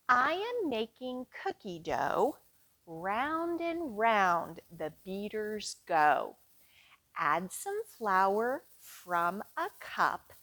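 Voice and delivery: sing-song nursery rhyme chant; rhyme for children. Acted. Librarian leading kids through a cookie-baking rhyme, sing-song. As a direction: chant it slowly for little ones.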